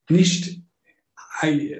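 sudden unvoiced whisper. Real, not acted. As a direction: drop into a whisper. Lowering voice on a key point.

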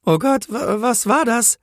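high-pitched, startled stutter; frightened stammering. A narrator's reading. Policewoman startled by the thunder, stammering high with fear. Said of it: "stammelte sie".

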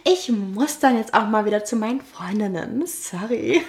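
low-voiced polite exit. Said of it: "du warst auch noch tiefer in der Stimme".

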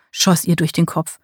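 ordinary delivery

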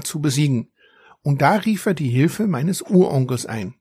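a hint of a proud little dragon explaining; young dragon. Young dragon telling the narrator about his uncle, lightly voiced.

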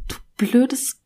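hissed insult under the breath; whispering. Retold or imitated. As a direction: whisper the curse, voiceless.

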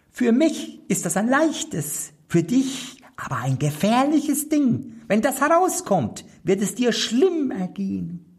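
little black manikin. A narrator's reading. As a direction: pipe it up like a tiny magic servant. (hohe, kleine Koboldstimme)

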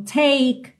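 "take" ending on the K, no vowel after; silent final E. Shown as a demonstration. Teacher showing the silent E, "take" cut at the K. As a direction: say "take" slowly, stopping on the K. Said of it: "você não pronuncia a letra E".

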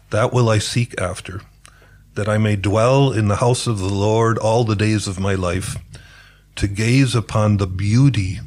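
measured scripture quotation in native English; reciting a psalm. Real, not acted. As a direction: recite the verse phrase by phrase, with pauses. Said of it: "Ich zitiere das aber auf Englisch".

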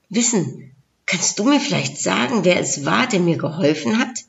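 gently lilting storyteller reading; story narration. A narrator's reading. Narrator tells listeners a Christmas tale, storytelling voice. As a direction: tell it like a fable, phrase by phrase.

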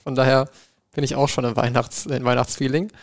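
talking with a mouthful of cookies; chewing while talking. Real, not acted. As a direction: chew cookies between words. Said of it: "ich esse gerade Kekse".

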